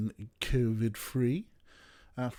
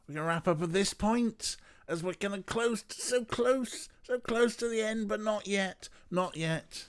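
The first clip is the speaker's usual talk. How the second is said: high sing-song; 11 semitones higher than usual. Real, not acted. Teasing the near ending.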